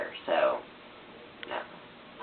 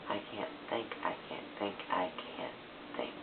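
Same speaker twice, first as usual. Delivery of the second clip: muttering to herself; 2 semitones lower, 14 dB quieter than usual. Real, not acted. Mumbles stuck for ideas.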